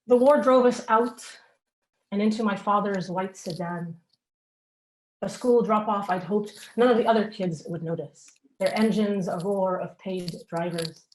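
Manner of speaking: deliberate reading, pausing between phrases; measured spoken-word poem; poem recital. Acted. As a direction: open lines firmly and let them fall away. Reads own poem aloud.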